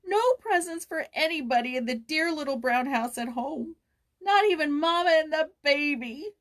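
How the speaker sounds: high, loud, tearful wail; a girl crying over lost Christmas; building tearful lament; sobbing. A narrator's reading. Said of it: "she sobbed".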